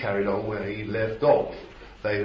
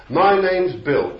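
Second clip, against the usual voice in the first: slow, higher and louder silly demon voice; preacher voicing a demon giving its name; mock demon reply; 8 semitones higher, 9 dB louder, slower than usual. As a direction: play the demon's answer for a laugh. Mocking demon answering its name.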